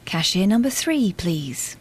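regional tannoy voice; common supermarket announcer. Pretend. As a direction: call it like a supermarket PA. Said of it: "you did a common voice for the supermarket".

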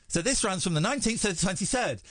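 lisping through a swollen tongue; words slurred by a fat tongue. Shown as a demonstration. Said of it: "your tongue gets a bit fatter and flabbier".

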